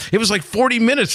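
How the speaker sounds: high-pitched, incredulous retelling; retold amazement. Man telling his friend about last night, mock amazed.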